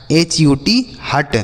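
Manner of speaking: एच यू टी spelled letter by letter, slowly, then हट; slow spelling out. Shown as a demonstration. Teacher spelling a word for children, slowly. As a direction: sound out each letter slowly for the class. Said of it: "इसे पढ़ेंगे हट".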